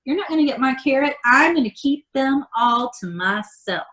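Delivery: high teasing ferret, rushed at the start; squeaky high mock-selfish creature voice; greedy ferret voice. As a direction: play a smug little critter hogging carrots.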